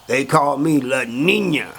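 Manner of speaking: slow, drawn-out boast in character; proud self-introduction. Retold or imitated. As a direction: announce your nickname slowly, stretching each word. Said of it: "La Nina runs up to him and says".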